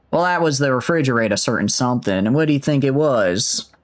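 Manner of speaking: put-on rough Aussie accent; amateur Australian; attempted Australian accent. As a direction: keep up a shaky Australian accent. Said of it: "I've lost the accent".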